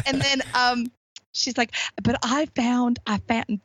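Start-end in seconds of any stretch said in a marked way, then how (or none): 2.0-3.6 put-on Southern accent. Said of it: "she's got the Southern accent".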